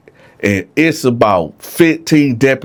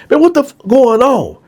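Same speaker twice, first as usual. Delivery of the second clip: the guard turning on the lights, demanding answers; 12 semitones higher than usual. Retold or imitated. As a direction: demand to know what happened.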